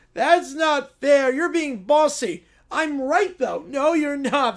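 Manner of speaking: high, loud preschoolers squabbling; bickering kids. Acted. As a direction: switch between whiny, bossy little kids. Kids argue on the ice.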